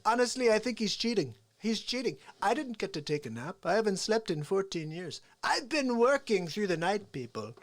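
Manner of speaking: Donald Trump. Acted. Comic as Trump mocking Sleepy Joe on stage, indignant impression. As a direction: stretch words in mock indignation. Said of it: "I get a little, like, crazy with Trump".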